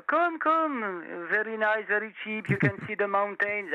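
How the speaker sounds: high, eager sales pitch in English; tout's pitch. Retold or imitated. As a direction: coax the tourist like a street tout. Local touts selling a room.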